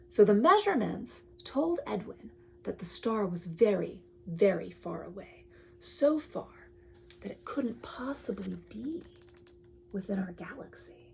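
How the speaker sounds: storybook read-aloud, drifting to a hush; bedtime-story reading; reading to a child. Acted. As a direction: read the book to your kid. Parent reads picture book aloud.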